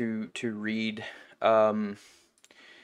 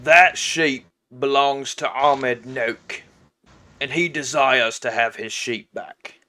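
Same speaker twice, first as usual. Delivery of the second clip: slow, lightly voiced orc boss; a touch of a menacing orc; demanding orc; 5 dB louder, slower than usual. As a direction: announce yourself slowly and state your demand. Plays the orc.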